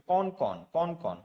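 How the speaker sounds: very slow, stretched কনকন; drawn-out shiver word. Shown as a demonstration. Teacher showing students the biting-cold word, very slowly. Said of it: "শীতে কনকন করছে".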